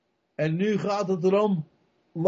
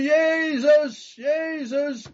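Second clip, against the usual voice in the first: high, drawn-out cry for Jesus; calling out; 10 semitones higher, much slower than usual. Retold or imitated. Blind beggar to passing Jesus, calling out. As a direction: call the name out high, stretching it. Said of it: "die begint te roepen".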